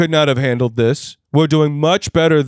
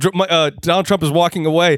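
ordinary talk

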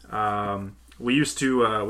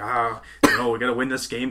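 ordinary talk, nothing marked

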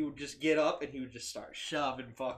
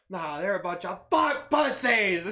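very loud, high, rising scream; 6 semitones higher, 10 dB louder than usual. Retelling how he answered back about the big guys, retelling a scream. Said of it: "He's like screaming across the street".

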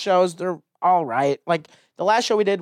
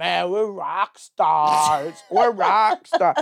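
put-on drunken voice. Retelling how a drunk companion celebrated after a show: imitating drunk Matt. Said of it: "and then they're hammered".

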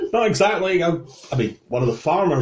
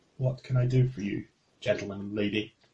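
soft, heavy-hearted, somber sighing delivery; 5 semitones lower, 8 dB quieter than usual. A game narrator voices a vampire woman who has been crying, answering her door: somber, sighing. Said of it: "she kind of sighs".

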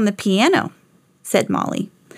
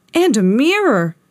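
squealing, squealed outburst; 4 dB louder than usual. Gary, peeking into the closet with Lisa at playtime, squealing. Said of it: "squealed Gary".

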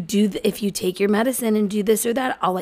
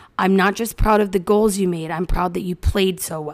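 plain

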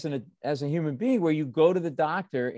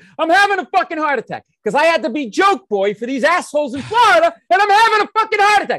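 frantic, panicked screaming, very high and loud; 14 semitones higher, 12 dB louder than usual. Retelling screaming to a wife about chest pain: imitating own screaming. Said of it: "I start screaming to Carol".

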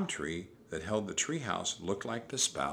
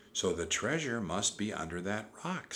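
plain reading voice

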